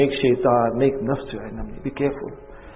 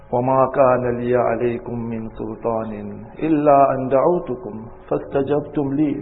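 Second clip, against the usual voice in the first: very fast recited Arabic; Quran recitation; much faster than usual. Acted. Preacher reciting Shaitan's words from Quran, fast. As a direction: rush through the verse.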